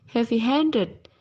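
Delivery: heavy-handed with main stress on HANDED; primary stress on second word. Shown as a demonstration. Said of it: "Primary stress is on the second word".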